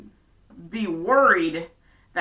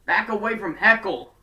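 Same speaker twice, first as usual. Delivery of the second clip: startled whoa; 6 dB louder, slower than usual. Retold or imitated. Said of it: "it just sounded like".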